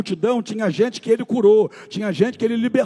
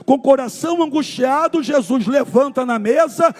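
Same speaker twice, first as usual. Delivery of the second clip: loud, high, fervent preaching; preaching at full force; 5 semitones higher, 5 dB louder than usual. Acted. Pastor rousing the Thursday congregation, full-force preaching. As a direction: preach it out to the whole church with fire. Fervent worship sermon climax.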